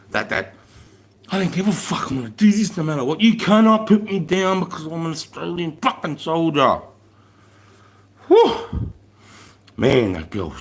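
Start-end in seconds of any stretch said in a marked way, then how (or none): 1.3-6.8 higher, pushing through, faster at the middle; voicing her stubborn refusal to quit; defiant grit. Imitating the recruit's defiant grunt, higher and gritty. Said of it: "that fucking grunt". 8.3-8.9 sharp high exhale of amazement; high whistled whew. Real, not acted. The corporal, finishing the story, lets out a high amazed whew. After telling inspiring story.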